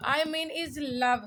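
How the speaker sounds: each word drawn out very slowly; slow, careful lesson voice; slow teaching read. Shown as a demonstration. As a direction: spell it out slowly for learners. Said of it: "इसकी pronunciation मैं यहाँ लिख रही हूँ".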